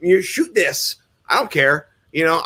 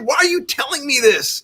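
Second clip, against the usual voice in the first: put-on scared little kid; 11 semitones higher than usual. Young son begging his dad to stop, childlike high cry. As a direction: sound like a frightened small boy.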